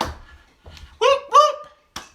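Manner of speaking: very high, rising party whoops; whoop whoop cheer. Real, not acted. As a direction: cheer like a hype crowd. Cheering during workout stream.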